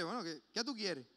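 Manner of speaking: imitación de respuesta displicente, en tono corriente; desganado, displicente. Acted. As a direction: pregunta como quien cede de mala gana. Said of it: "Una persona que podía decirle". (imitando indiferencia)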